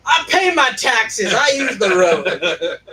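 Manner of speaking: high, slow shouted protest; mock indignant shout. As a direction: play it hammed-up righteous. Mock defending driving down middle.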